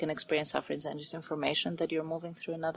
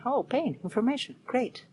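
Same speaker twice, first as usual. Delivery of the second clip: much higher, upbeat and lively, welcoming each blow; cheerful acceptance; 7 semitones higher than usual. Retold or imitated. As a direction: greet every hurt with a bright "great". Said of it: "I just say".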